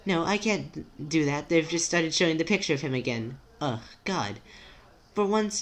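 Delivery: anxious, formal character. Acted.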